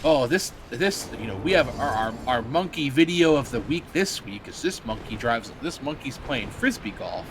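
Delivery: mock news host. Streamer imitating Phil's old wacky news show, mock upbeat host. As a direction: hype the goofy monkey clip. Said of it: "This man used to, like".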